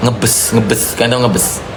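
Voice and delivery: talking while smoking a cigarette; cigarette in mouth. Real, not acted. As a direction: speak around a cigarette drag. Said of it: "aku kebiasaan sambil merokok".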